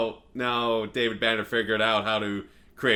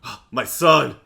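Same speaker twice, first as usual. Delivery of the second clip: mock tearful father; 4 semitones higher, 5 dB louder than usual. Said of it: "he's just like".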